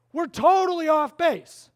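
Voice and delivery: a king realizing his mistake, a touch of alarm. Retold or imitated. King voiced in retold story.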